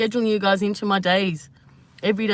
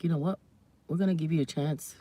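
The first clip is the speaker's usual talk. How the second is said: low, soft stars voice; 4 semitones lower, 5 dB quieter than usual. Retold or imitated. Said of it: "they're like".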